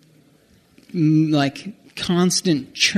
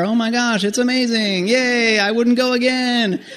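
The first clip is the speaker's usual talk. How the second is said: mock tourist chatter; 5 semitones higher than usual. Mocking his own tourist thoughts.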